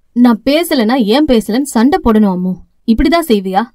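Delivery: a touch of annoyance, lightly scolding; half-hearted brotherly rebuke; mildly cross. Acted. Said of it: "என கொஞ்சம் கோபத்தோடு கேட்டான்".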